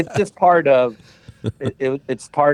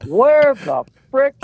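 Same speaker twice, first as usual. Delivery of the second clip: higher, bewildered outburst; baffled; 7 semitones higher, 3 dB louder than usual. Retold or imitated. New player lost at a Hollywood mansion party, higher bewildered cry. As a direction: sound lost and amazed. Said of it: "I'm like".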